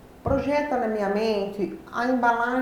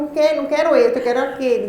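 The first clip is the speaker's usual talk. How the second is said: louder, insistent voicing of mother; retold refusal; 3 semitones higher, 6 dB louder, faster than usual. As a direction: dig in and refuse, acting it out. (recusa teimosa da mãe, em voz mais alta)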